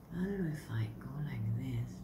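soft whispered self-talk under the breath; whispered aside. Real, not acted. Reader whispering to herself while laying the cards, hushed. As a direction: whisper it to yourself, almost unheard.

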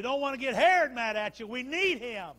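urgent plea acted from the pulpit; urgent preaching. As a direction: push the plea out high and loud. Voicing anxious townspeople in sermon.

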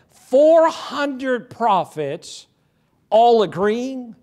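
four hundred drawn out very slowly, rising; mock disbelief at four hundred prophets agreeing; slow incredulous rise. Incredulous preacher question.

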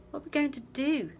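high loud panicked yell. A narrator's reading. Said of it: "Scott yelled".

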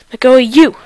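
loud excited shout; frantic shout. Real, not acted. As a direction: shout it out in the heat of play. Gamer frantic mid-fight.

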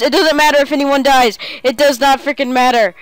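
loud, fired-up declaration; hyped insistence. Real, not acted. Player hyping the final fight, loud and fired up. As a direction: push it out with hype.

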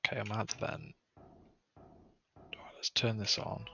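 hushed nervous whisper. Real, not acted. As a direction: whisper it so nothing hears. Sneaking up to the vent.

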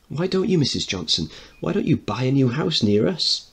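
put-on young Edward hoping she'll move near him; child Edward. Child Edward pleads with Mrs Johnston.

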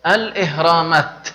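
الإهرامات stopped at the end, final t kept; الوقف على الإهرامات بالتاء; pause on the word. Shown as a demonstration. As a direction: pause after الإهرامات and keep the t. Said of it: "أريد أن أتوقف".

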